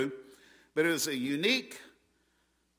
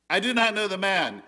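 raised, louder denial; a sharp, raised denial; Peter's denial; 6 semitones higher, 6 dB louder than usual. Retold or imitated. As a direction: deny it outright with an oath. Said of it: "Peter this time denied with an oath".

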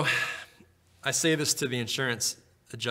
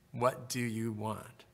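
softer and slow, drawing the question out gently; soft slow repeat; 6 dB quieter, much slower than usual. Acted. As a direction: let the repeat sink in quietly and slowly. Repeated prayer invitation, softened take.

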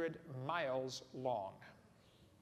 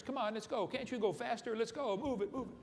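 higher, pushy mock kids' yelling; kids screaming; 5 semitones higher than usual. Fourth graders yelling at football players, higher mock yell. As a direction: urge them on like impatient kids. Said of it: "They're screaming at the football players".

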